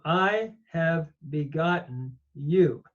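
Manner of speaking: "I" leaned on, the line drawn out slowly; slow down and weigh the "I". Shown as a demonstration. Teacher rereading the verse for the class, slow and stressed. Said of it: "making it emphatic".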